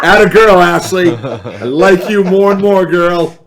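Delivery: loud, delighted praise; loud cheering. Real, not acted. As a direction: cheer her on loudly. Cheering on a co-host.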